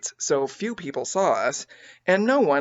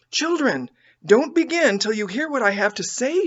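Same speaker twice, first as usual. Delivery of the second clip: put-on higher, urgent call to the children; mother crying out; 7 semitones higher than usual. A narrator's reading. Mother calling her girls to wait. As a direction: raise the voice to stop them eating. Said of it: "she cried".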